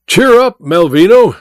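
loud call through a door. A narrator's reading. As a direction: raise the voice to reach the next room.

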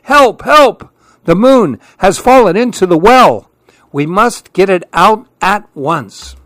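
high, loud cries for help; panicked shout. Acted. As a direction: raise the alarm in a fright.

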